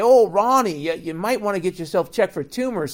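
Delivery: mock sweet-talk. Bush sweet-talking Reagan again.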